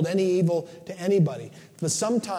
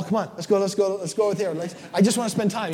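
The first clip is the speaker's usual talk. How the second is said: a bit higher, pleading dog begging to play; eager dog voice; 4 semitones higher than usual. Retold or imitated. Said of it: "Remember yesterday".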